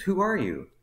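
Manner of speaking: high-pitched demand, falling at the end; insistent bafflement. Retold or imitated. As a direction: imitate a boss pressing in disbelief. Manager insists on asking again.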